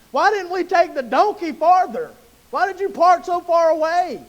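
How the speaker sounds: lightly hammed-up gripe at dad; mock complaining son. Son questions his daddy about the long walk, mock complaining. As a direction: pitch up into an exasperated whine of protest.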